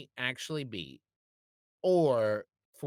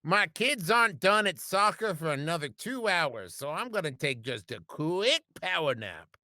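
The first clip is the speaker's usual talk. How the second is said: tipsy wine mom; 2 semitones higher than usual. Acted. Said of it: "I'm turning into Gary".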